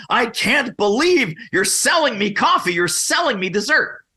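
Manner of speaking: high, mock indignant diner; mock outrage. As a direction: ham up a diner offended by dessert. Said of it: "throws down their fork enraged going".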